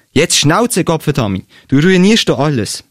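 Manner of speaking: mildly acted exasperation; annoyed outburst. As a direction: tell them off crossly. Acted lovers' quarrel in a story.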